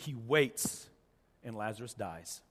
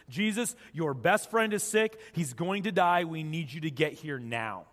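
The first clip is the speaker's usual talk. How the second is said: urgent plea. Retold or imitated. Mary and Martha send word to Jesus, urgent plea. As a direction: press the plea, easing toward the end.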